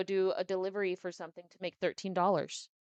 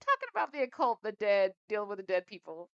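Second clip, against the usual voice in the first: laughing aside; 2 semitones higher, 6 dB louder than usual. Real, not acted. Laughing at the spooky topic.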